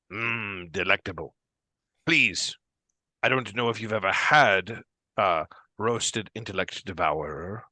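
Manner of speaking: put-on savoring, gracious old hostess; granny Duergar woman. Granny Duergar shares roasted devourer with guests, gracious granny voice. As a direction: put on a granny offering a delicacy. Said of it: "A granny Duergar woman".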